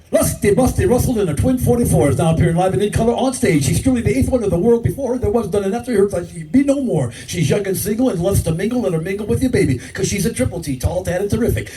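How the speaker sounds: lightly hammed-up carnival barker pitch; barker spiel. Old New Orleans barker working the crowd, hyped pitch. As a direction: sell the show like an old strip-club barker. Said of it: "I used to say".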